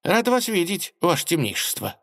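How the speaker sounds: high, timid fawning voice; bow and squeak it out. Acted. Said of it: "робко поклонился министр". (робко, угодливо)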